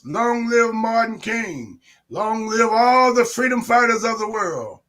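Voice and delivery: rising rally chant, call and response; ranting dictator speech. Real, not acted. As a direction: whip up the crowd.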